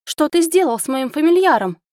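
high, loud accusing cry; shouted. Acted. Wife shouting at husband who hurt her familiar, loud high cry. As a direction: scream it at him. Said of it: "выкрикнула я".

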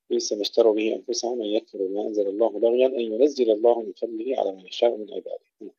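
measured chanted recitation; Quran recitation. Shown as a demonstration. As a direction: recite the verse in tajweed. (تلاوة مجودة)

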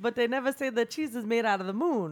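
lightly voiced stand-up comic; deadpan observational joke; Rasa impression. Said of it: "That was a good rasa".

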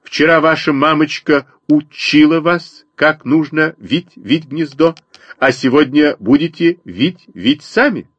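high scolding bird mother; sparrow mother. A narrator's reading. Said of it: "сказала Воробьиха".

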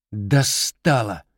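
sullen mutter. Acted.

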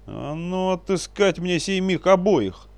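loud high furious bark, slowed; barked order. A narrator's reading. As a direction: roar the command at the men. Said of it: "гаркнул боярин".

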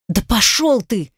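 slow, hissing contempt; hissed curse. A narrator's reading. Daughter hissing at her father, slow and venomous. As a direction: spit it out through the teeth. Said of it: "зашипела я".

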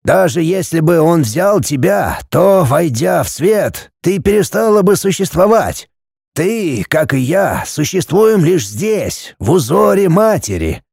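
a hint of a mystic old man explaining; old Kofler's voice.

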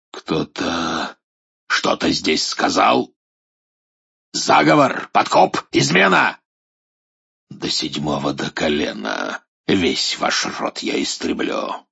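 threatening dark lord voice; menacing. Acted. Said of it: "Чёрный идол грозно". (грозно, тёмный властелин)

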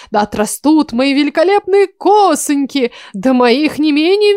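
mock sinister proclamation. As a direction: parody a pompous necromancer. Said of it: "громогласно зловеще изрекла, пародируя".

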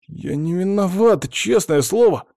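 put-on high, childlike pleading whine; childish whine. A narrator's reading. Scared admin pleads innocence to investigators like a child, high whine. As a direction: plead like a caught schoolboy. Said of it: "По-детски законючил он".

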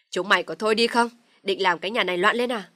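loud, angry bellow; furious shout. Acted. Father-in-law shouts at the quarreling children. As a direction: roar to silence the room.

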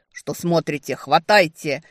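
loud irritated command; irritated shout. Acted. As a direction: bark the order, annoyed. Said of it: "раздражённый".

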